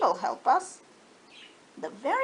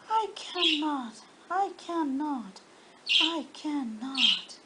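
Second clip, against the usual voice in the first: slow, rhythmic weary chant like wheels rolling away; chugging tired engine. Acted. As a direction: chug the words out as he rumbles off.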